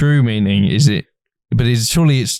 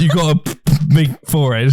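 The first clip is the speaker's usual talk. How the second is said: laughing imitation; 4 semitones higher than usual. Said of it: "looked me in the eye and went".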